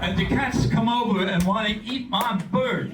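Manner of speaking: mock tough-guy voice, high and loud, slow, half laughing; telling a friend about the bat by his door, in a hammed-up mobster voice; Sopranos gangster. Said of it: "could have been an actor on The Sopranos".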